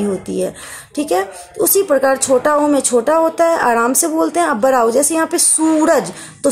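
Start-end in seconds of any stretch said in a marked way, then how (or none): 5.4-6.1 "सूरज" with a long, pressed first syllable; stress on सू. Shown as a demonstration. Teacher shows pupils the big ऊ, stressed first syllable. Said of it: "सू पे जोर पड़ता है".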